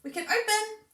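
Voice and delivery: high, slow, sing-song wonder; slow teasing sing-song for a toddler; playful demo to child. Shown as a demonstration. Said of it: "So it becomes quite fun and repetitive".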